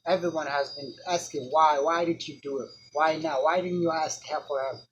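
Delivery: put-on furious friend confronting the dead boy; angry accusation. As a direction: hammer him with every why.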